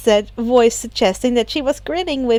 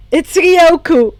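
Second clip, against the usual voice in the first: proud; 6 semitones higher, 7 dB louder, slower than usual. Acted. Izuku proudly announcing hero name.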